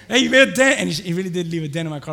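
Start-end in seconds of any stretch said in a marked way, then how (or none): 0.1-0.8 loud, raised-pitch mock complaint; acted-out indignant yell; retold protest. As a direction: call out after the driver in mock outrage. Retold protest at car hit.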